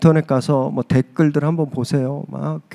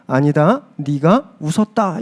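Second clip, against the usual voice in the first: mild rebuke; 2 semitones lower, slower than usual. Retold or imitated. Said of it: "책망하는 겁니다".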